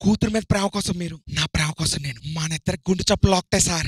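breathless pleading lover; panting. Acted. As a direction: speak as if out of breath. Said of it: "కొద్దిగా ఆయాసపడుతూ, రొప్పుతూ".

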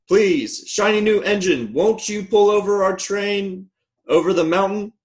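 high-pitched storybook plea; little clown's eager, high appeal; pleading toy clown. A narrator's reading. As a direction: beg for help in a high clown voice. Clown begs the new engine for help.

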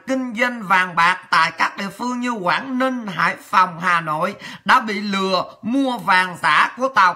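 measured news-report reading. Acted. Reading listeners a fake-gold news report, measured news read. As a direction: read it out like a bulletin.

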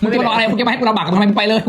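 playful retold telling-off; retold urging. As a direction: shoo them off to a better job. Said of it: "เราก็เลยบอกว่า".

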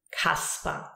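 Kaspar with a hard K; German pronunciation. Shown as a demonstration. Teacher giving learners a name example, Kaspar with hard K. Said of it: "and we say".

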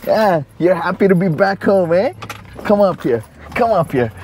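high, slow sing-song for the dog; pet talk. Real, not acted. Cooing at the dog.

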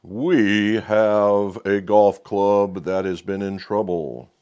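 slow, sinister mad scientist voice. Pretend. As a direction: creep it out slowly like a villain. Halloween-themed spooky intro.

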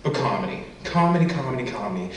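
tongue twister rush. Shown as a demonstration. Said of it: "Try and say that three times fast".

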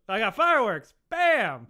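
loud, hammy sales pitch; loud excited pitch. Acted. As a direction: sell it big and loud.

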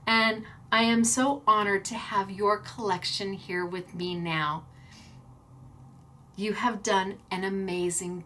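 soft, sincere and subdued; quiet, moved gratitude; heartfelt. Real, not acted. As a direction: let the voice drop as the feeling takes over. Heartfelt thanks to friend, subdued sign-off.

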